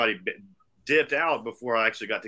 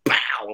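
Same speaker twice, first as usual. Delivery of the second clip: punchy, loud smack noise; imitated impact "pow"; 5 dB louder than usual. Telling how the glass struck, loud impact noise. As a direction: punch out the hit.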